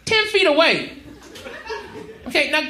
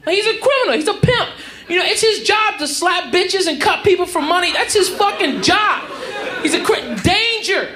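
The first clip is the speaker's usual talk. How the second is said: high-pitched, worked-up realisation; mock alarm; 5 semitones higher than usual. Comedian realises the man at his door is dangerous, mock alarm. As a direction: press each point in rising comic panic. Acts dawning alarm about pimp.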